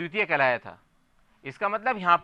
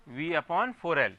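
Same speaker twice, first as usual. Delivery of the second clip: each word drawn out for note-taking; very slow dictation; 2 semitones lower, much slower than usual. Shown as a demonstration. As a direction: spell it out slowly so pupils can write. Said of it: "teacher dictating a formula".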